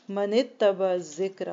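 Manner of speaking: slow, intoned Arabic phrase; Quranic recitation. Acted. Teacher answers her own question with the verse, slow chant. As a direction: draw out the verse fragment reverently.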